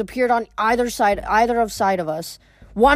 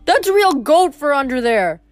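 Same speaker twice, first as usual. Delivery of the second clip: higher, indignant protest; affronted, pitched-up yelp; indignant yell; 5 semitones higher, 3 dB louder than usual. A narrator's reading. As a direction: complain loudly at being poked. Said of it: "Grover yelled".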